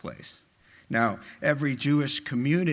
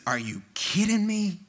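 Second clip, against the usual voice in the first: higher-pitched mock disbelief; incredulous friend; 6 semitones higher than usual. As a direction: imitate a friend's incredulous reaction. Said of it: "when he reacts to a situation".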